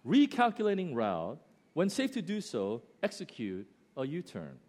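lightly imitated GPS, starting high and falling; simple GPS voice. GPS telling driver to turn round, simple and clear. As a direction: recite a clear, simple navigation prompt. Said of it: "Very simple".

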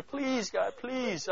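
high, pleading please; desperate plea. Retold or imitated. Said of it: "almost in that place saying".

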